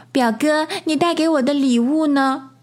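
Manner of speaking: put-on high child's voice; high-pitched young cousin rabbit; little girl cousin. A narrator's reading. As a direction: ask for your present in a high voice. Little cousin asking for her present.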